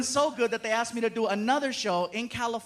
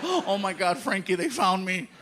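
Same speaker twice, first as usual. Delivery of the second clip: mock panic; 3 semitones lower than usual. Faking panic for kid.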